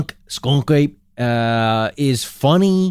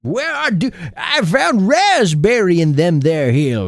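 put-on old prospector Utah accent; folksy Utah drawl, slow; 3 semitones higher, slower than usual. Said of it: "Doing your famous Utah accent".

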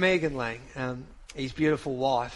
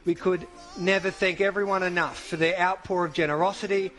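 solemn statement reading. Acted. Host reads the widow's statement on air, solemn and measured.

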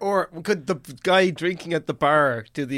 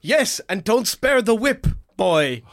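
mock commanding boss; 5 semitones higher, 3 dB louder, slower than usual. Barman boss orders apprentice.

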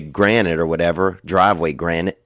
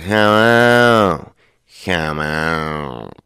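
lightly imitated drawn-out country drawl; mock drawl of a backwoods guy; slow drawl; 3 semitones lower, much slower than usual. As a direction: drag the words out lazily. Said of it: "he had the slowest drawl".

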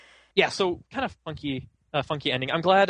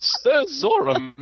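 snake voice; 13 semitones higher, 4 dB louder, much slower than usual. Acted. Mock Sir Hiss voice.

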